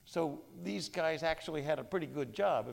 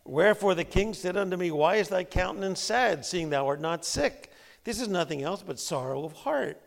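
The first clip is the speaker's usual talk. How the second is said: Bible reading; 4 semitones higher, 8 dB louder than usual. Shown as a demonstration. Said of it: "That's not what it says in the Bible".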